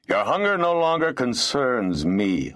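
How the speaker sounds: haughty, unmoved reply; cold dismissal. A narrator's reading. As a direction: brush off the plea with lordly coldness. Lord coldly dismisses whining tenant.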